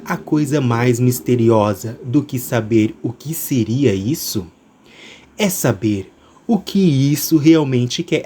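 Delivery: slow, smooth trailer read; velvety narrator voice. Acted. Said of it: "minha voz aveludada".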